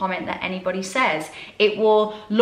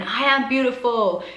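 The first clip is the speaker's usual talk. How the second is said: brief put-on American accent, slightly higher; 3 semitones higher than usual. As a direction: say it like an American self-help devotee, American accent. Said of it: "did that in an American accent".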